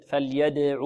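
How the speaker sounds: "فليدع" with d released in a short bounce; qalqalah on daal. Shown as a demonstration. Teacher repeats the qalqalah example, "فليدع" with bouncing d. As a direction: let the d of "فليدع" echo. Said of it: "حروف القلقلة قطب جد".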